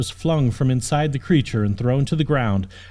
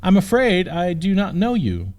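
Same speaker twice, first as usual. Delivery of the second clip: higher, lightly voiced noble young lady; princess voice; 5 semitones higher than usual. Princess in her cage questioning her rescuer. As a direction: play the princess proper and puzzled.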